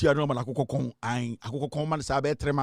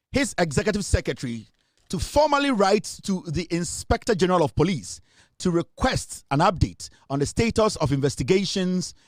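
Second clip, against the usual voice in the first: formal radio news delivery; announcer reading the headline. Acted. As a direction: read it like a bulletin. Reads a news item.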